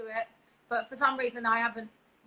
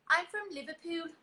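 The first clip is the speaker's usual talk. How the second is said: put-on a half-hearted Liverpool accent, higher; an unsure Scouse accent, laughing at the end; mock Scouse accent; 5 semitones higher, 5 dB louder than usual. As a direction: put on a cheeky Scouse lilt. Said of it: "Scouse is Liverpool, isn't it?".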